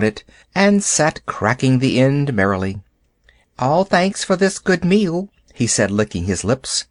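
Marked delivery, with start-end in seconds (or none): 3.6-5.3 a mean little beggar making himself small; fawning jackal. A narrator's reading. Jackal grovelling to Father Wolf for a bone, higher. Tabaqui thanks them.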